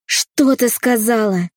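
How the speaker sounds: father raging at his defiant daughter; enraged father. A narrator's reading. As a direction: dare her to repeat it.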